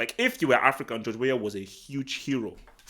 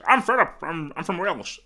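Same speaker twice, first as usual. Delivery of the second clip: higher-pitched, badly faked Welsh accent; attempted Welsh accent; 4 semitones higher than usual. Shown as a demonstration. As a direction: have a clumsy go at sounding Welsh. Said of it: "I don't know how to do a Welsh accent".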